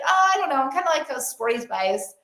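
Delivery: imitating an unsure friend, high sighing start that sinks; mock half-hearted, deflating admission; disempowered. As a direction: waver and back away from the claim. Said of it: "in this very disempowered voice".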